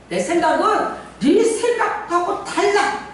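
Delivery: 네 stressed, high and slow; God's words slow and high, stressing 네; slow emphatic quote. Retold or imitated. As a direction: spell out each word slowly. Quoting God, repeated.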